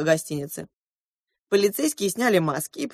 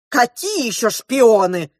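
yelling back; 5 semitones higher, 6 dB louder, slower than usual. A narrator's reading. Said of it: "заорала на него хозяйка гостиницы".

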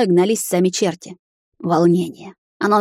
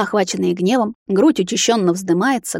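usual speaking voice

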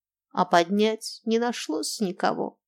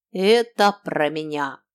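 proud; 3 semitones lower, 3 dB louder than usual. Acted. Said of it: "гордо утверждала Марго".

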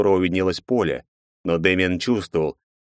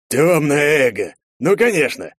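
louder, slow cry of realisation; a sudden aha, drawn out; realising exclamation; 8 semitones higher, 5 dB louder, slower than usual. Acted. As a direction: slap the forehead and blurt it out.

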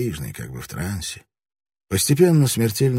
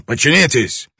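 loud, much higher angry yells; furious shouting; 5 semitones higher, 6 dB louder than usual. A narrator's reading. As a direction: rage at her. Lord raging at his wife.

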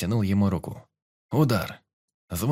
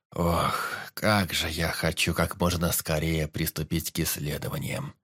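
dreamy; 4 semitones lower than usual. Acted. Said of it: "мечтал он".

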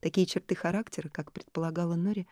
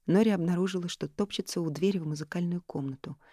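usual speaking voice

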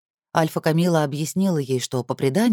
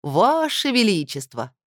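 mock grandeur; 3 semitones higher, slower than usual. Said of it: "наигранной ядовитой улыбочке".

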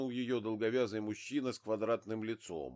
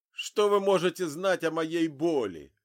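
loud, high bitter cry; anguished shout; 7 semitones higher, 10 dB louder than usual. A narrator's reading. Grieving father rejects Zig's sympathy, anguished shout. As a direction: hurl it at him in pain.

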